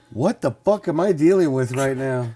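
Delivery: half-shouted outrage building up; exasperated rant. Retold or imitated. Driver yelling at the bee that stung him, rising outrage. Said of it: "And I'm like".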